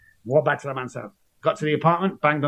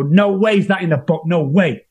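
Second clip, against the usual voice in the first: higher and louder, mock-incredulous; scoffing disbelief; 4 semitones higher, 5 dB louder than usual. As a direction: wave it off as nonsense. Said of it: "people go".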